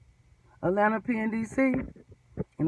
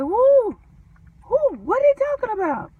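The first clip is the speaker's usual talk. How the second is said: much higher, loud frantic shouting; panicked runaway slave; 12 semitones higher, 8 dB louder than usual. Retold or imitated. Mimicking the panicked coworker, higher and shouting. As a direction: yell in a panic about the mail. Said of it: "this is like a runaway slave".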